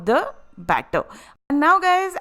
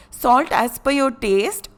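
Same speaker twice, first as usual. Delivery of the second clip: raspy, worn-out voice; hoarse voice. Real, not acted. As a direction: speak through a tired, scratchy throat. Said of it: "my voice is gone".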